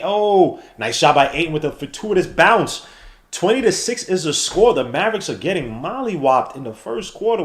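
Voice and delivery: live announcer calling the game; play-by-play commentary. Acted. Calling the Mavericks game for viewers like a broadcaster. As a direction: call each possession like a broadcaster.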